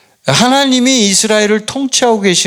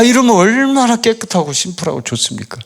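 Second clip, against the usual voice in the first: ordinary talk, nothing marked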